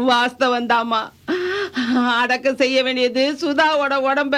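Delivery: tearful words building to a wail; tearful lament. Acted. Grandmother speaks of granddaughter Anjala's last rites, tearful then wailing. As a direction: agree through sobs, then break into wailing. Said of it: "நீங்க இப்படி அழுதுட்டு இருந்தா".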